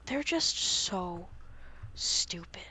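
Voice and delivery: breathy whisper, trailing off in disbelief; whispered scorn. Real, not acted. Host to co-host, mocking the ghost hunters in a whisper. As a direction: drop to a whisper on it.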